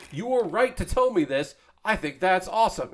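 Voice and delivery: high, emphatic retold approval; retold enthusiasm. Streamer replays his answer to his intern, enthusiastic.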